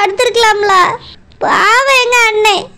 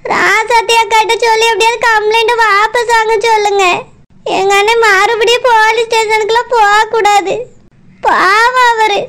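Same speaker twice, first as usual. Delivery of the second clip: tearful pleading; 3 semitones lower than usual. Acted. A sister begging her uncle to save her brother, tearful. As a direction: plead for your brother while crying.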